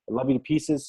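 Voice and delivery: fighting back tears while thanking his wife; choked up. Real, not acted. Thanking his wife on the webinar, choked up and soft. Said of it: "Sorry for getting choked up".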